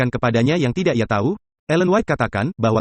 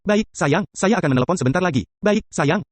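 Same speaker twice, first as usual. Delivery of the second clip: lightly higher, quick brush-off reply; mock rushed husband; husband on the phone; 5 semitones higher than usual. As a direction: hurry the wife off the phone, sweetly. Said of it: "Saya jawab".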